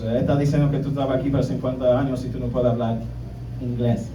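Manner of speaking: aunt snitching, hushed. Retold or imitated. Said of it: "And she goes".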